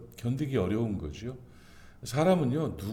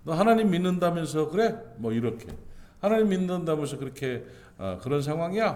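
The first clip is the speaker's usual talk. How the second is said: mocking taunt; 3 semitones higher than usual. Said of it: "사람들이 막 조롱합니다".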